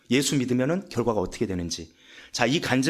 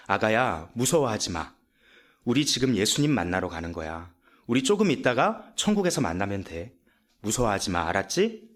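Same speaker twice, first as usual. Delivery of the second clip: put-on mother soothing child; 4 semitones lower than usual. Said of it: "엄마가 앞으로 터벅터벅 걸어 나와서".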